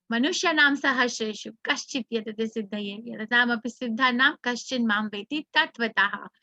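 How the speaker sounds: measured scriptural recitation; sanskrit verse recitation. Acted. Teacher recites the Gita verse to the class, in steady intoned recitation.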